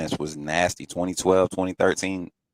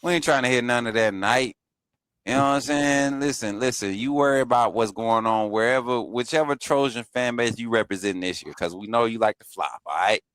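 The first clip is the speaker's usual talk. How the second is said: playful trash talk; 4 semitones higher than usual. Real, not acted. Trash talk at chat troll.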